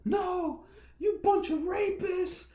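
shrill racist lady yelling. Retold or imitated. Racist white lady yelling at restaurant staff, high mock shout. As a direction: screech it like an angry racist customer. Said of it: "she started yelling at them".

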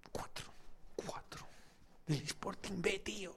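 hushed, savoring whisper; a secret smug whisper; gloating whisper. Real, not acted. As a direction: breathe the words out in relish. Savoring the old score.

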